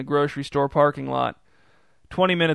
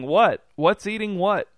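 loud, then higher alarmed shout; 5 semitones higher, 3 dB louder than usual. A narrator's reading. Brother shouting back while running across the yard. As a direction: call it out while running over.

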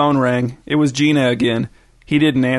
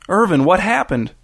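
higher, alarmed question; pitched-up shock, no added volume; gasped; 5 semitones higher than usual. A narrator's reading. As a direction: ask in startled concern. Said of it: "Gina gasped".

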